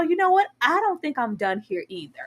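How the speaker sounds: quoted line. Retold or imitated. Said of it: "in the same breath go".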